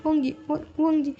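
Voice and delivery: high, stammering cries of her name; panicked pleading. Retold or imitated. Wing frightened over the shot Wang Ji, high stammering plea. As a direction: beg him to be okay, voice climbing in panic. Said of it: "विंग बहुत ही ज़्यादा डर जाते हैं".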